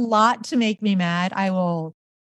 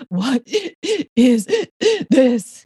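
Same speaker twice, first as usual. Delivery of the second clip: rising, louder panicked question; 5 semitones higher, 4 dB louder, much slower than usual. Retold or imitated. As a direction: blurt it out in confused panic. Panicked reply to therapist.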